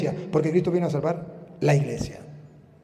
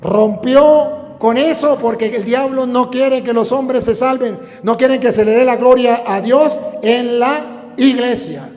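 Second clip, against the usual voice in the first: raised, emphatic pulpit delivery; fervent preaching; 6 semitones higher, 8 dB louder than usual. Acted. Preacher warning about the devil's plan, fervent preaching. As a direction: drive the warning home to the congregation.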